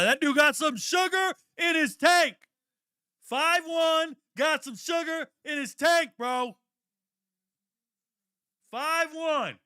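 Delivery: roast him at full volume; high hooting mockery while watching the draft; mocking shout. Real, not acted.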